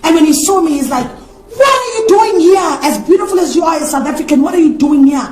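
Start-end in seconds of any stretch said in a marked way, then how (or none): 1.6-5.2 surprised. Retold or imitated. Jabu surprised to see her at the church. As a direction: voice a friend shocked to find her there.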